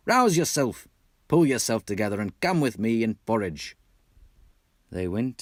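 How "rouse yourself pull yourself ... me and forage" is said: rallying call. Acted. Rat rallies Mole.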